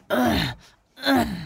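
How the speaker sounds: mock piggy grunt, rising high. Pig enjoying a back scratch grunts up at the farmer. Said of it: "grunted Squinty".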